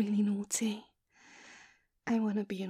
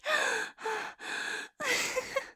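high breathless giggle; giddy laugh; 12 semitones higher than usual. Acted. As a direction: laugh out, dazed and happy. Giddy after climax.

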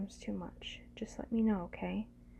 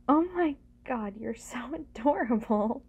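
loud, higher, laughing gush; delighted gushing; 3 semitones higher, 9 dB louder than usual. Acted. Delighted by the partner's reaction.

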